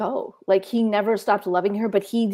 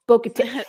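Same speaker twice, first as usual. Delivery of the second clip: Bo-Katan with the emphasis on "tan"; Bo-Katan, stressed bo-ka-TAN; stress on last syllable. Shown as a demonstration. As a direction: lean on the final syllable of Bo-Katan. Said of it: "emphasis is on the last syllable".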